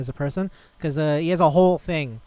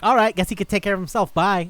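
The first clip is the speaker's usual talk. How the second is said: high, louder offhand send-off; mock breezy brush-off; breezy dismissal; 5 semitones higher, 6 dB louder than usual. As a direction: imitate carefree parents cheerfully bailing. Careless parents voiced in retelling.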